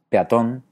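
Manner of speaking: PEATÓN with E gliding into A; diphthong. Shown as a demonstration. Teacher offers the second option, peatón as diphthong. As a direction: squeeze peatón into two syllables. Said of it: "hacer diptongos manteniendo la calidad".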